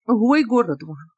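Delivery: ordinary delivery, nothing marked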